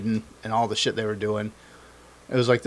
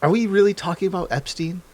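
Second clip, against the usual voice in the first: imitating Trump; 5 semitones higher than usual. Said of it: "Trump stops Pam Bondi".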